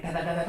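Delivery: quick, repeated patter noise; imitated footsteps. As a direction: mimic a toddler's running feet. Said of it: "you hear footsteps again".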